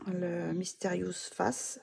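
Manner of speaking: slow English title in a French accent. Real, not acted. Vlogger reading an English book title, self-conscious French accent. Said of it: "avec mon accent anglais".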